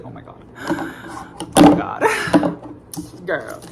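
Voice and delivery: breathless, gasping oh my God with a surprised laugh; stunned gasp. Retold or imitated. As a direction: gasp it out, almost voiceless with surprise. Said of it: "I was like".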